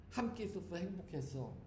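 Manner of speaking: 함께 lightly stressed, soft and falling; tender last words. Shown as a demonstration. Nun rehearsing dying words for loved ones, tenderly. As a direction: say it gently like a poetic goodbye. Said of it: "그걸 좀 더 시적으로 표현을 해야지".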